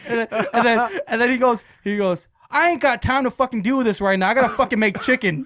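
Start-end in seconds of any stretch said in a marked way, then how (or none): 2.5-5.5 loud, high exasperated rant; angry. Retold or imitated. Busy chicken cook brushing off prank caller, angry. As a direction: imitate an irate fry cook fed up. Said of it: "Why are you so angry".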